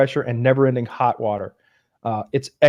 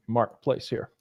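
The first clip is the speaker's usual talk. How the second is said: mock tough guy; 6 semitones higher, slower than usual. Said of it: "I sit up and go".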